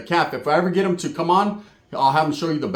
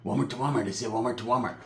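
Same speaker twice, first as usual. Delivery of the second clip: imitating Pepe; 5 semitones lower, 9 dB quieter than usual. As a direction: drag it out, low and cold. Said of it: "he's like".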